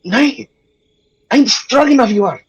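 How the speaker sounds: high, odd wolf voice; wolf speaking. Acted. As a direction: growl it out like a talking wolf. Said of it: "he just speaks".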